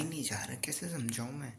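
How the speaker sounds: "कैसे समझाऊँ मैं" whispered, voiceless and soft; exasperated whisper. Real, not acted. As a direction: sigh it out as a whisper. Tired late-night study complaint.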